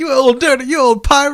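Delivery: loud, high exclamation with upward inflection. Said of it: "he doesn't have that upward inflection".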